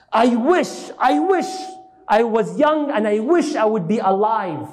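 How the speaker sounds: high, rising, longing I wish; yearning cry. Retold or imitated. Old Waraqa to Muhammad, wishing he were young, in a high longing cry. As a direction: reach up with old man's yearning.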